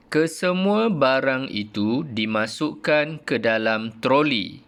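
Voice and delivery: slow reading aloud; model reading. Shown as a demonstration. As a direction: read slowly for pupils to copy. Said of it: "mengikut intonasi yang cikgu ajar". (bacaan contoh perlahan)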